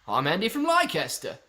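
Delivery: playful bad English accent; amateur mock-English accent; attempted English accent. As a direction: try an English viewer's accent, dropping the final R. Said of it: "Oh, do the accent".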